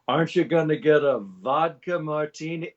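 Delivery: lightly hammed-up heckler; bad Connery imitator. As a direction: imitate a fan trying a Connery voice. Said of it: "the guy with the Budweiser goes".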